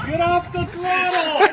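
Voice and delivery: nagging backseat driver. Real, not acted. Shouting at the learner driver.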